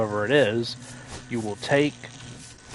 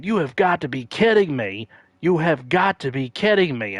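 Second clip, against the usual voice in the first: higher, louder exasperated repeat; announcer disbelief; 5 semitones higher, 4 dB louder than usual. Retold or imitated. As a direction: sell the announcer's outrage. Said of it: "the announcer kept saying".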